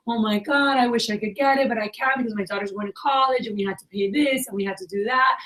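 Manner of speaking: high, whiny-customer imitation; mock sob story. Customer explaining why they can't buy, mock sob story. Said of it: "they give you the whole sob story".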